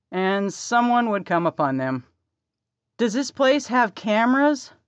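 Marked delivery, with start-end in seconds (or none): 3.0-4.7 high, alarmed near shriek. Acted. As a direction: squeak it out in alarm. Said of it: "Ainsley nearly shrieked".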